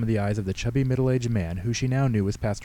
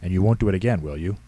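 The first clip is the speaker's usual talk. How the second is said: mock sternness; 6 dB louder than usual. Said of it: "with mock sternness".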